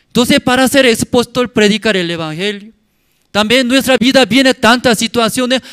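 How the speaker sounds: very loud, high-pitched preaching; exhortación a gritos. Real, not acted. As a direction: hammer the congregation with urgent questions. Predica exhortando con fuerza. (predicación a voz en grito, muy aguda)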